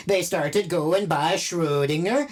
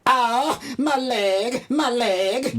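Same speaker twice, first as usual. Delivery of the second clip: in pain; 7 semitones higher, slower than usual. Acted. Just shot in the leg.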